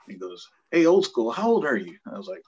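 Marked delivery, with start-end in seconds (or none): 0.7-2.0 loud, high-pitched officer's call; captain calling out. Retold or imitated. Captain singles out the older recruit, calling out loudly. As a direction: call him out like a superior officer.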